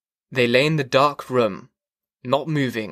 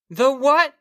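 very high rising shriek; shrieking question; 13 semitones higher, 3 dB louder than usual. A narrator's reading. Wife over the scream of the car, shrieking. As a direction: shriek it as if you can't hear. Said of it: "she shrieked".

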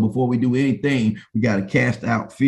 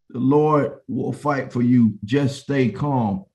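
slow, measured reading with long pauses; solemn scripture reading; slower than usual. Acted. Preacher reading Moses' reassurance to the people, solemn reading. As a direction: deliver each phrase slowly and steadily.

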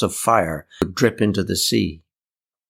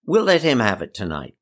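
higher voice calling out, settling by the end; raised voice; 7 semitones higher than usual. A narrator's reading. Emmy offering her aunt's spare room to Eli, in a raised, higher voice. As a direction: pipe up so the aunt hears. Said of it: "She raised her voice".

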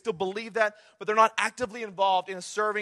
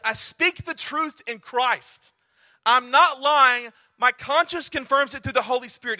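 slow scripture reading. Shown as a demonstration. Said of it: "he said the same thing three times".

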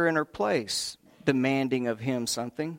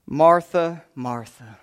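patient; 5 dB louder, slower than usual. Retold or imitated. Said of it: "very patient".

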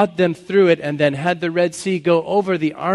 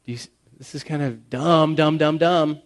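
sarcastic poet. Acted. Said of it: "the poet's kinda saying".

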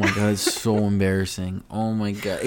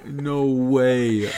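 higher, drawn-out astonishment with laughter; amused disbelief; 3 semitones higher, much slower than usual. Acted. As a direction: laughingly stretch out the shock. Acts out astonished bystander reaction.

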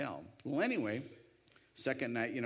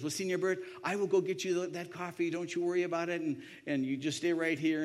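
higher-pitched, reassuring waiter; voicing an obliging server; friendly waiter; 5 semitones higher than usual. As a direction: imitate an eager, helpful waiter.

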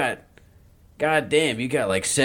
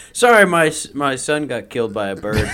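mock dramatic excuse; 6 dB louder than usual. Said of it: "trying to think of the best one".

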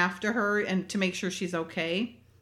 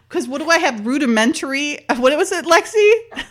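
real laughter through the words, louder and higher; cracking up while asking; laughing; 6 semitones higher, 8 dB louder than usual. Real, not acted. Laughing at her own drawing.

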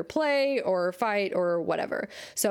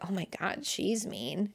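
mocking him with a soft offended mutter; 6 dB quieter than usual. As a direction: grumble it under your breath, offended. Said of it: "looks at me like".

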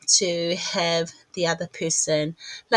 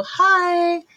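put-on high, louder little girl; 11 semitones higher, 4 dB louder than usual. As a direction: chirp it like a small girl. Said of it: "she's doing her little".

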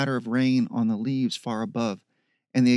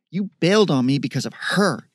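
louder, hurt accusation; bitter accusation; 3 semitones higher, 5 dB louder, faster than usual. Acted. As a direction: blame him outright. Sister accuses brother.

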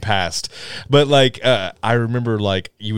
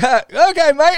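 high-pitched, louder British reply; hammed-up high British voice; mock British gamers; 5 dB louder, faster than usual. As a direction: squeakily accept him as a mate. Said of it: "everyone's like".

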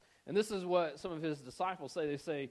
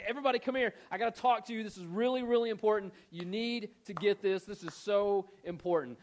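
loud, high-pitched urgent summons; yelling out; 6 semitones higher, 6 dB louder than usual. Retold or imitated. Jesus telling the crowd to listen, urgent calling out. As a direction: call out urgently to a whole crowd. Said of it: "he, like, yells out to everybody".

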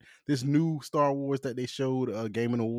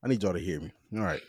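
leaning into the mic. Real, not acted. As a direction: close to the mic, emphatic. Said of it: "I'ma lean into the mic".

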